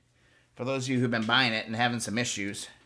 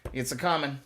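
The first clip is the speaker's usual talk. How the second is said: a touch of Texan twang; Texan accent. Pretend. Host jokes to viewers while polishing, slipping into a Texan accent. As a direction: slip lightly into a Texan accent. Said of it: "I turned into a Texan".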